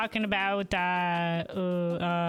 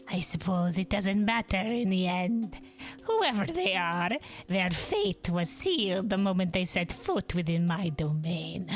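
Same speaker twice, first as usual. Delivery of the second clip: villain voice. Acted.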